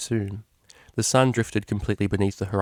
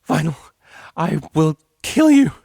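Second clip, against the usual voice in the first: laughing threat; 8 semitones higher, 9 dB louder than usual. Acted. Shrieked threat during tickling.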